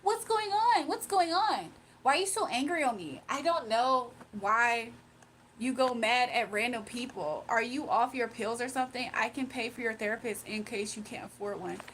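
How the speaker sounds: mimicking a troll's sugary concern; mocking the commenter. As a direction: parody her fake sympathy. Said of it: "she's about to play".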